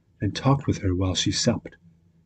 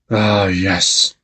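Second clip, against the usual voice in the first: mild sighing; 5 dB louder than usual. Acted. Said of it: "with a great sigh".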